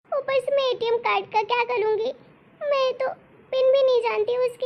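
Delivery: daughter-in-law begging her mother-in-law to spare her, desperate; desperate pleading. Acted. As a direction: beg her not to call the police. Daughter-in-law begs not to call police.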